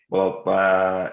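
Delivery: "Well, uh" as an Arabic syllable, tongue back held up on a stretched vowel; heavy-to-light vowel demo. Shown as a demonstration. Teacher showing how hard it is to keep the tongue up, stretched vowel. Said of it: "very hard to say".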